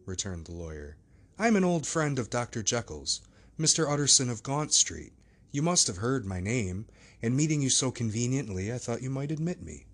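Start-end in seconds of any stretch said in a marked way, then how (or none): 1.4-9.9 Utterson's voice. Acted. Lawyer introduces himself.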